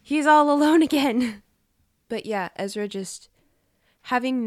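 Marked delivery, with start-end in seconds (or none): 0.0-1.4 high, loud playful wail; mock lament. Podcaster laments Ezra going home alone, hammed-up wail. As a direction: wail it with laughing, exaggerated pity.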